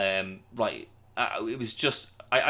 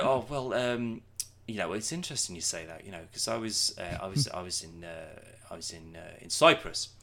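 put-on fading, hesitant old man; a hint of a rambling pensioner; very old faint voice; 3 semitones lower, 4 dB quieter than usual. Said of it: "it is proper old man".

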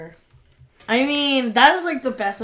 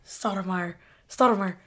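lightly voiced Monk, a touch awed; a hint of Monk making his point; half-acted Monk line; quoting Monk. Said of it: "and he's like".

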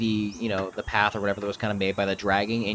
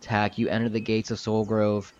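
slow, measured narration with weighty pauses; game master scene setting; slower than usual. Acted. Game master shows players the gates of Soul Grove, slow narration. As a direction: draw out the grand reveal.

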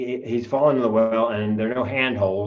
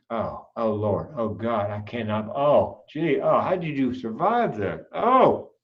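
mock sympathetic noises; slower than usual. Shown as a demonstration. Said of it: "make the appropriate noises".

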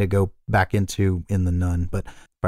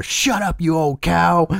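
high, mock-angry yell in a put-on voice; hammed-up high-pitched scolding shout; old man's yell; 7 semitones higher, slower than usual. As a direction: imitate a possessed girl yelling as an old man. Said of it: "yells right at her".

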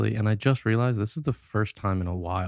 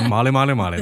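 laughing; 3 semitones higher, 6 dB louder, faster than usual. Real, not acted. Laughing repeats.

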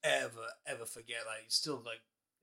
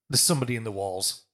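retold ghost voice; 3 semitones lower, 9 dB louder than usual. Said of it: "that loud".

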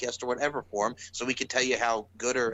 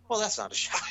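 laughing retort; 9 semitones higher, faster than usual. Retold or imitated. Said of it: "And I'm like".

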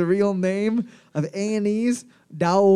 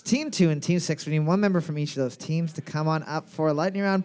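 announcer; faster than usual. Acted. Host announcing to room.

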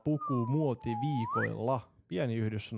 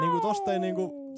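excited; 13 semitones higher, 5 dB louder than usual. Real, not acted. Excited over revealing bikini.

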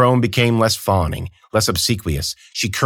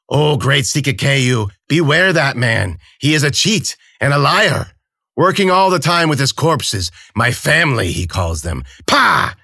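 put-on bitter old crone; 6 semitones higher, 3 dB louder than usual. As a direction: spit out the warning like an old hag.

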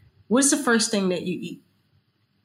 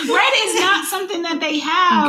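laughing; 10 semitones higher, 4 dB louder than usual. Real, not acted. Laughs through line.

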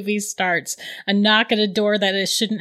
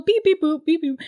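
robot noises; 7 semitones higher than usual. Retold or imitated. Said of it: "little robot noises".

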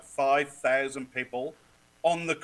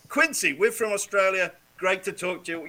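higher, louder greeting across a field; calling out; 6 semitones higher, 8 dB louder than usual. Acted. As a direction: hail a player eagerly for an interview. Reenacts calling to player on field.

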